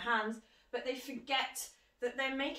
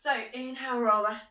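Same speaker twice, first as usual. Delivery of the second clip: cueing loudly; 7 dB louder than usual. Real, not acted. Instructor cueing movement.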